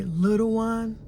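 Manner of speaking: put-on tender whisper-close self-soothing to the inner child. Shown as a demonstration. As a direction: comfort a hurting little one like a parent. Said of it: "and just say".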